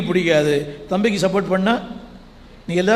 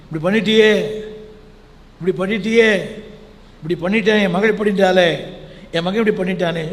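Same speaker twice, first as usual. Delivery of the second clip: wailing lament; faster than usual. Retold or imitated. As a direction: lament like a heartbroken parent. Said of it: "இப்படி அழுகை, அவருடைய புலம்பல்".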